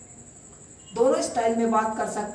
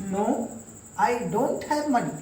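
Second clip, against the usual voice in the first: slow, careful demo; much slower than usual. Shown as a demonstration. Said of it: "नए version में चलते हैं".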